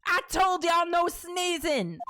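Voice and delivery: slow, high, emphatic telling-off; exasperated scolding. Acted. Photographer scolds the pair for sneezing, exasperated. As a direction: scold them with drawn-out exasperation.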